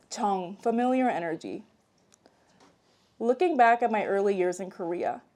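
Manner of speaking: measured read-aloud delivery; memoir narration. A narrator's reading. Author reads childhood memoir to an audience, measured narration. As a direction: read your own story to an audience.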